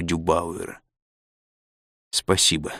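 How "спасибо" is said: low, quiet, with some effort; lightly acted struggle to speak; strained thanks. A narrator's reading. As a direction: get the word out with difficulty. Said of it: "с трудом выговорила она".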